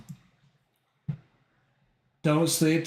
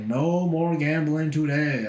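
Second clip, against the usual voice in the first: slow, firm, final no more gambling; firm ruling; slower than usual. Real, not acted. Announcing to chat, slow and firm. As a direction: put your foot down, slowly. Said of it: "putting my foot down".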